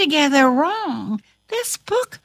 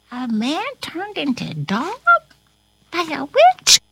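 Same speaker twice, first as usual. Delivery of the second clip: fast, rising amazed question; 4 semitones higher than usual. Acted. Asking Corona about the story, amazed rising question. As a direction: ask it as if astonished.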